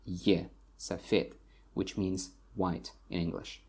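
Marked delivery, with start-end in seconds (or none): 0.8-1.4 safed stressed on the final e; safed, second syllable stressed; stress on last syllable. Shown as a demonstration. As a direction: lean into the e of safed. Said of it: "the stress falls on".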